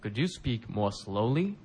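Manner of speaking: slow, careful teacher model line; slow model read. Shown as a demonstration. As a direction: say it slowly for learners to repeat. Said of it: "皆さんも一緒にリピートしてください".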